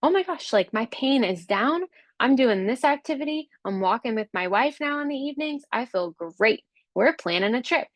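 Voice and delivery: gushing client, pitched well up; bubbling over with thanks, high and eager; excited grateful client. Retold or imitated. Client gushing to her instructor, high excited voice. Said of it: "they're gonna say".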